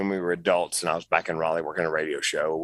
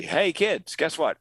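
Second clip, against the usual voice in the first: put-on high bright call to the kids; excited call; 9 semitones higher, slower than usual. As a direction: announce big news, pitched way up. Mother's triumphant return home.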